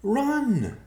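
high, loud warning cry; piercing cry of alarm; calling out. A narrator's reading. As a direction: shout an urgent warning, very high. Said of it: "she called out".

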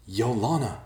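yelling out for a sister; yelled name. A narrator's reading. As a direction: call the name out high, falling away. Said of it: "Ben yelled".

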